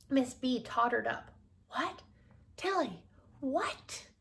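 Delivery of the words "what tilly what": higher, drawn-out puzzled question; baffled questioning. Acted. Miss B tottering up to ask Tilly, baffled. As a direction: ask it high, hanging on the name.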